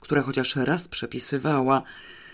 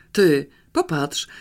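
a slow, louder call for attention; sudden call; 5 dB louder, slower than usual. Acted. Pawełek calling his sister to look at the car door, sudden louder call. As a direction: call her over, suddenly. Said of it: "zawołał nagle Pawełek".

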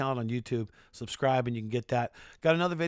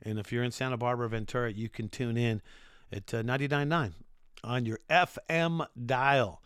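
radio voice. Shown as a demonstration. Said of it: "That's my radio voice right there".

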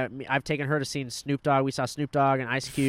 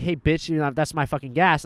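louder retold confrontation; grandpa's angry challenge; 2 semitones higher, 6 dB louder than usual. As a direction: imitate a grandpa calling out a thief. Acts out grandpa confronting gas thief.

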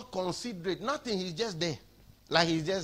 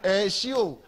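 rising call, getting louder; playful angel's call growing louder; mock angel calling out; 4 semitones higher, 5 dB louder, much slower than usual. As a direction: call out to her like a teasing angel. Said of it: "The angel is telling her".

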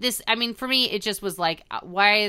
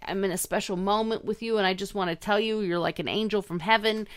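softer, gushing over-earnest confession; mock heartfelt gushing, dropping softer as it goes; mock sappy confession; 4 dB quieter than usual. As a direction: gush it like a soap-opera lover. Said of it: "why are all these people talking like this".

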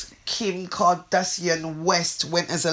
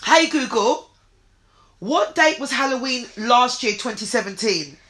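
repeating to voice assistant; 4 semitones higher than usual. Real, not acted. Calling Google, raised pitch.

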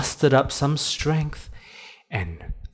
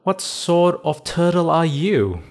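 high, loud curious bunny voice; trickster tale voices; 7 semitones higher, 4 dB louder than usual. Acted. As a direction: ask it loud and high, puzzled. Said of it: "Banana the bunny said".

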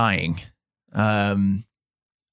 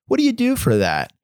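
a hint of a flustered woman's voice; her worried question; 3 semitones higher than usual. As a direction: jump way up in pitch for the anxious dog owner. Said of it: "she said".

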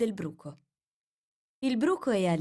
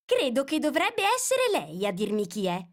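very serious; 7 semitones higher, 4 dB louder than usual. A narrator's reading. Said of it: "con grande serietà".

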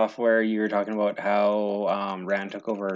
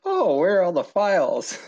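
Zoolander; 9 semitones higher, 4 dB louder than usual. Retold or imitated. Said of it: "Zoolander when he's like".

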